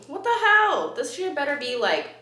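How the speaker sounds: hammed-up angry rant at a stingy brand; mock rant. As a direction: drag each word out in exaggerated outrage. Ranting at cheap brand.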